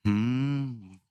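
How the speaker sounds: curt, dismissive hmm; arrogant hmm. Retold or imitated. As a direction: sniff it out proudly. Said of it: "उसने ऐसा लिख के भेजा". (घमंड भरा हम्म)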